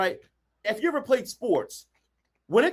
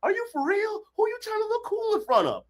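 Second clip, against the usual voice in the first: passionate scolding; 8 semitones higher than usual. Real, not acted. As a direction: call them out hard. Coach scolds listeners passionately.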